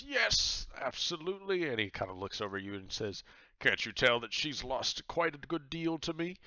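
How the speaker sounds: high, loud jovial pirate captain. Acted. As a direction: boom it out like a cheery pirate host. Captain Myers voice.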